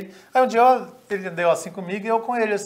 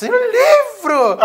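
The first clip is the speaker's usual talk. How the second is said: very high, loud, drawn-out question; comic amazement, voice shooting up; astonished outcry; 8 dB louder, much slower than usual. Retold or imitated. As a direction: stretch it out in squealed disbelief. Marcos reacting astonished to book news.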